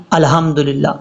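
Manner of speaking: 'الحمدللہ' run together with plain h; wrong recitation. Shown as a demonstration. Teacher shows how people misread it, mistaken recitation. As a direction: say 'الحمدللہ' low and unstretched. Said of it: "کتنی بڑی mistake ہے".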